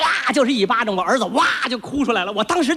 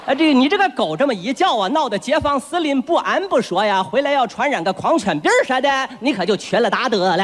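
put-on old neighbour granny; 3 semitones lower than usual. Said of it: "街道王奶奶".

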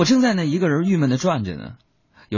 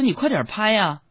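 imitating mom impatient; 9 semitones higher than usual. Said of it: "我说".

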